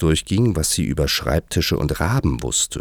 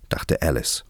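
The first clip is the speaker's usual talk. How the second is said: usual speaking voice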